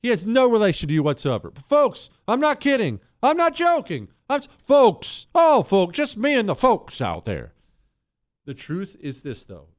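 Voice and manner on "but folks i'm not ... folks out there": much higher, pleading "folks" routine; mock folksy politician. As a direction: ham up the man-of-the-people plea.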